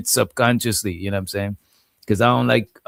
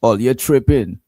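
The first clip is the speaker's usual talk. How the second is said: Trini lilt on "tripping"; light Trinidadian accent. Shown as a demonstration. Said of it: "That's how Trinidad people talk".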